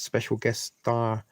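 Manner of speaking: breathy hush on special guest star; mock whisper. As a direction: whisper it like a secret teaser. Playful whispered aside.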